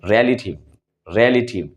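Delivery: रिलेटिव said carefully, with a buzzing वी at the end; correct pronunciation. Shown as a demonstration. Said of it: "इसीलिए हम लोग इसको कहते हैं". (रिलेटिव का सही उच्चारण, वी में कंपन के साथ)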